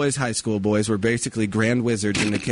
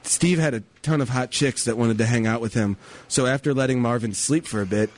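story narration. A narrator's reading. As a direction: read it like a mock after-school special.

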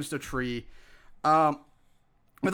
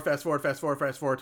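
fading mumble; 8 semitones lower, 7 dB quieter, faster than usual. Retold or imitated. Narrating skipping through film.

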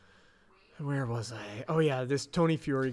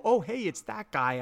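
mock recognition; 6 semitones higher than usual. Shown as a demonstration. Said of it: "you will go".

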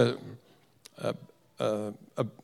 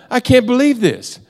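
wife's higher-pitched exasperated complaint; retold exasperation; 6 semitones higher than usual. Wife retelling the failed all-night argument with husband, mildly exasperated. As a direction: imitate a fed-up wife, pitched up. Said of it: "now she's mad".

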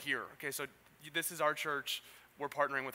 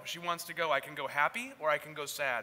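higher, louder imitation of a Wisconsin accent; Wisconsinian accent; 4 semitones higher, 5 dB louder than usual. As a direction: put on a Wisconsinian accent, playfully quoting a husband. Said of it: "has the great Wisconsinian accent".

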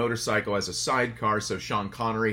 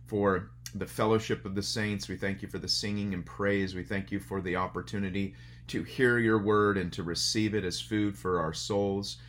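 soft, steady prayer voice; opening prayer; 2 semitones lower, 3 dB quieter than usual. Acted. Pastor praying before the sermon, soft and reverent. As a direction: pray it gently for the congregation.

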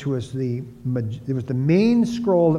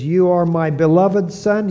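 lightly declaimed voice of God, louder; 3 semitones higher, 6 dB louder than usual. Retold or imitated. God speaking to his Son from the heavens, lightly proclaimed. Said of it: "The voice came out of the heavens".

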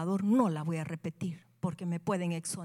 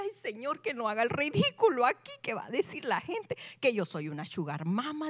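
higher-pitched mock-weepy fretting; tearful plea; 3 semitones higher than usual. Woman begging God not to be ridiculed, tearful plea. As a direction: plead as if crying with embarrassment. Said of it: "lloraba y decía".

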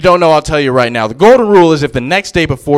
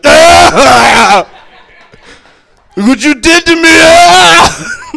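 high, loud, shouty wife voice; mock wife shout; 11 semitones higher, 6 dB louder, much slower than usual. Comic imitating wife yelling about her burps. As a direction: yell it like a blaming wife. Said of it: "she stares me in the face".

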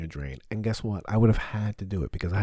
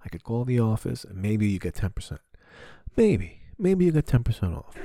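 imitating the plumber; 4 semitones higher, 5 dB louder than usual. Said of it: "He was like".

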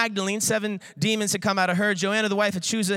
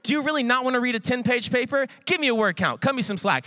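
exasperated student; 4 semitones higher than usual. Retold or imitated. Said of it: "professor hit you".

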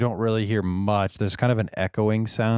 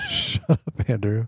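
squeaky high mocking whine; mocking whiny voice; 4 semitones higher than usual. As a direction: parrot him back in a squeal. Mocking friend's retort, laughing.

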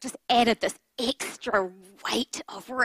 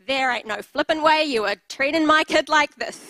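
mama bear rage; 4 semitones higher, 6 dB louder than usual. Retold or imitated. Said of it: "I went full mama bear".

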